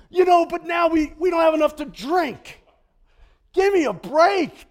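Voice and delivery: loud, high complaining shout; mock whining Israelites. Preacher voicing grumbling Israelites, shouted mock complaint. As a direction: whine loudly like a thirsty grumbler. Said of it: "So you get quail".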